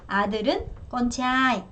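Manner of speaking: con trai said slowly, falling on trai; teacher's slow con trai, falling at the end; carefully drawn-out con trai; slow model word. Shown as a demonstration. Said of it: "다시".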